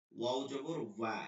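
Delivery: ওয়া met ronde lippen, niet als বা; rounded-lip wa. Shown as a demonstration. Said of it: "ঠোঁট গোল করে ওয়া বলতে হবে".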